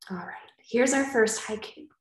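whispering to the class before the poem. Real, not acted. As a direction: whisper it like a secret. Teacher builds suspense for class.

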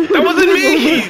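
laughing while denying it; laughing protest. Real, not acted. Accused by teammates, laughing protest.

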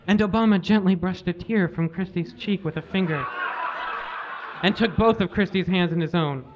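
fighting back giggles while reading; barely holding it together as you read on; reading through laughter. Real, not acted. Reader reading absurd fan fiction aloud, laughing.

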